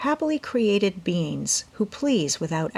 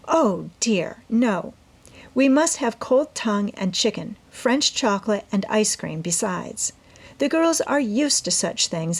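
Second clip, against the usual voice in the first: put-on eager young woman explaining her plan to her mother; Amy's voice; 3 semitones higher than usual. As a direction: plead your case brightly as the eager daughter. Amy insists on elegance.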